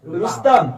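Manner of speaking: रुस्तम with a light short रु; short u demo. Shown as a demonstration. Teacher contrasting short and long u for students. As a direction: say रुस्तम with a quick short रु, no effort. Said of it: "दोनों को पढ़िए।".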